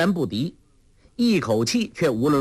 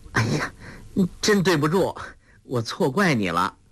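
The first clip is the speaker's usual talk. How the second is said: pleased; 4 semitones higher than usual. Acted. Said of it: "黄蓉喜道".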